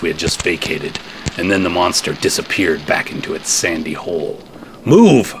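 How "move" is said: loud high shout. Acted. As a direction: bark the order to run. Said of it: "I shouted".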